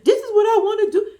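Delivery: hammed-up stubborn bride; mock whiny bride. Bride mocked, laughing whine.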